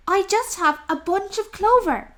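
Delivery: small and nervous, pleading; timid rabbit. Acted. Rabbit answers the rat.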